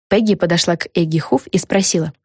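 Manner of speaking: usual speaking voice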